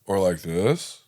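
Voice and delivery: "or like this" with a rising tail; varied intonation. Shown as a demonstration. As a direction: demonstrate a moderate rise on "this". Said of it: "supposed to be like this".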